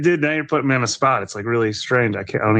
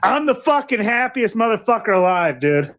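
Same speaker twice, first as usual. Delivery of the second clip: a touch of angry frog voice, raised; mock tough Kermit; lightly voiced angry Kermit; 5 semitones higher than usual. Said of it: "that sounded like an angry Kermit".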